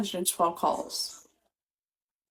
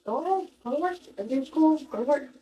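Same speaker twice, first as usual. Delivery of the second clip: mocking dismissive voice; 8 semitones higher, faster than usual. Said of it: "retelling his dismissive reply".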